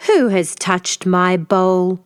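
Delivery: slow, heavy papa bear growl; slow grumbling bear question; father bear growl. Acted. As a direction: drag out the question like a cross big bear. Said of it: "Father Bear growled".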